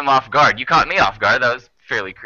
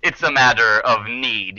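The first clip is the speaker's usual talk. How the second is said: politely menacing owl; 5 semitones higher than usual. Acted. Owl explains to the travelers its need, politely menacing.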